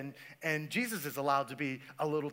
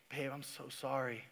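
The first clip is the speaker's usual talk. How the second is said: sleepy mumble; 5 semitones lower, 12 dB quieter than usual. Retold or imitated. Half-asleep husband answering wife.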